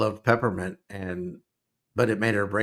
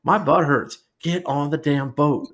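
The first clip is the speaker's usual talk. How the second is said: higher-pitched, mock exasperated heckle; toned-down retelling of a yell, drawn out at the end; retold loud complaint; 4 semitones higher, slower than usual. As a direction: re-enact heckling the screen without really yelling. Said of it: "I said it really loud".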